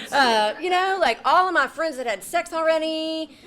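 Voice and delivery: high, loud, through real laughter; laughing while talking. Real, not acted. Storyteller excusing teenage self to audience, laughing and loud. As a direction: keep going through the laugh. Laughing after mock shock.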